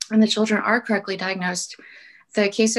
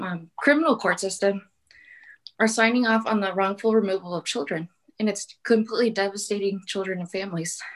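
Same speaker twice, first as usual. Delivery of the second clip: breathless, airy whisper from running; panting through the words after stairs; out of breath. Real, not acted. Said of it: "I'm out of breath".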